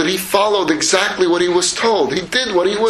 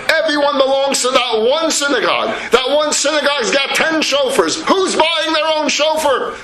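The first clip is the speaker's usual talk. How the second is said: yelling father; 6 semitones higher than usual. Acted. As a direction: shout in disbelief at the folly. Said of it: "he starts yelling at his kid".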